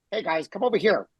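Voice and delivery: a hint of a friendly coach, easy and soft; soft mild voice. Mocking a fighter's gentle voice to friends, lightly soft. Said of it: "then he starts talking".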